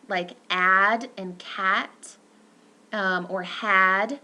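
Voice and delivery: add, cat and had said slowly; slow demo words. Shown as a demonstration. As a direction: draw out each example word. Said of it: "We have a".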